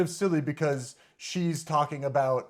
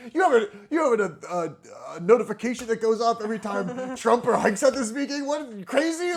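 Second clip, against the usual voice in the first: laughing disbelief; 5 semitones higher than usual. Retold or imitated. Incredulous quote of co-host, laughing.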